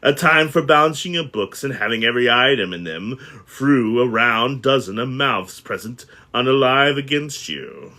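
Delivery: mild miser's rant. Acted. Scrooge ranting at nephew.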